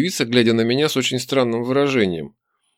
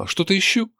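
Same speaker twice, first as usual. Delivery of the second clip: cool, higher-pitched query; coldly; 8 semitones higher than usual. A narrator's reading. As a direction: ask it with cold reluctance. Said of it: "спросил холодно". (холодно переспросить)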